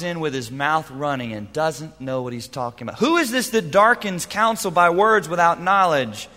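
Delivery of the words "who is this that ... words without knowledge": verse thrown out louder, with force on Who; booming proclamation. Shown as a demonstration. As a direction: proclaim it like God from the whirlwind. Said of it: "repeats the verse".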